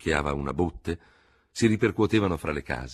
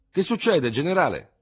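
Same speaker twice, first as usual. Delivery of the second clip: anxious veteran officers; 11 semitones higher, 6 dB louder than usual. Acted. Officers ask the general anxiously.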